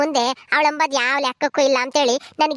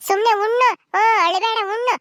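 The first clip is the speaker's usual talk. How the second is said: mock stern; 5 semitones higher than usual. Scolds him to stop crying.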